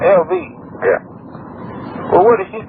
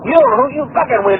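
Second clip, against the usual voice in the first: ordinary talk, nothing marked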